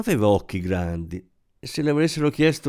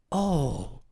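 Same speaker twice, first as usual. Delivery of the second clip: exclaiming; 3 semitones higher, 4 dB quieter than usual. A narrator's reading. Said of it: "esclamò la donna".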